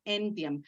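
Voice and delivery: entiam stressed on its first syllable, EN; stress on TEN. Shown as a demonstration. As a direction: lean on EN in entiam. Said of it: "¿Por qué acentúo esta?". (entiam con el acento en EN)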